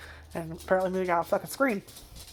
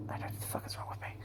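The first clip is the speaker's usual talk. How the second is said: embarrassed whisper; 16 dB quieter, faster than usual. Real, not acted. Embarrassed aside after dog voice.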